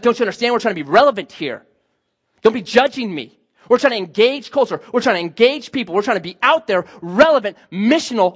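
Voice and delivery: mildly indignant self-justifying protest; defensive. Retold or imitated. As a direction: imitate someone defending himself, point after point. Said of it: "man, he got defensive".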